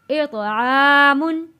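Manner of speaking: "आमुन" very slow with no nasal hum; slow joined recitation. Shown as a demonstration. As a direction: link it smoothly and slowly. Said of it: "हरूफ हल्की आ गया". ("आमुन" धीरे, बिना गुन्ना)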